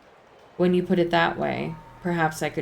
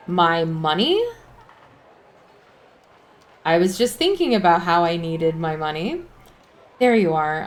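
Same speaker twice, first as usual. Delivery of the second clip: frantic outcry; 6 dB louder than usual. Real, not acted. Player frantic over lost money.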